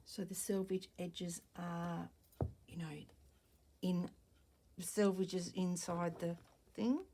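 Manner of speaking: talking around a pin held in the lips; words slightly blocked by a pin in the mouth. Real, not acted. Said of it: "Sorry, I've got a pin in my mouth".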